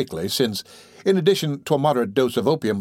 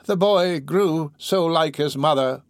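put-on slow, higher-pitched, absorbed old woman; rambling dying woman; 5 semitones higher, slower than usual. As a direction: ramble on slowly, ignoring the listener. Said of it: "rambling on and not heeding".

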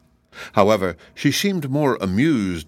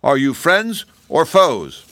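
put-on young girl voice; 7 semitones higher, 4 dB louder, slower than usual. A narrator's reading. Unseen girl asks through door.

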